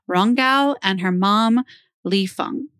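ordinary talk, nothing marked

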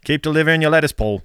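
put-on playful Shrek voice in a Scottish accent; Shrek impression. Host teases a Scottish postman listener, hammed-up Scottish Shrek accent. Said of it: "think of Shrek".

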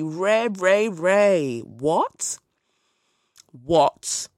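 loud calls of Ray, then baffled What?; mock panic. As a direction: call out for help in pretend alarm. Mock panic over snake.

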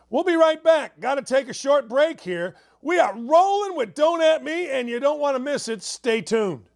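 high-energy throw to commercial; radio host break tease. Real, not acted. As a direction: punch it up to send listeners to break.

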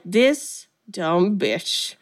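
drawn-out, deliberate mock contempt; mock indignation. Kayla seeing Ty with another girl, in slow mock indignation. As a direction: stretch each word out slowly in pretend disgust.

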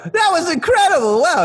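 high, loud delighted cry; the chef cheering from the corner, high and loud; thrilled chef. Acted. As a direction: gush with delight. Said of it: "he's just like".

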